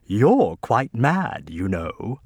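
slow, lightly put-on British accent; a hint of a suave British spy, slow and smooth; James Bond British accent. Andy teases the narrator, slow light British accent. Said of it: "he says in a British accent, doing James Bond".

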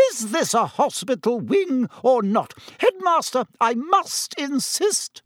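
very high-pitched hysterical outburst. A narrator's reading. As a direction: protest hysterically, pitch soaring. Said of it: "said Madame Pomfrey hysterically".

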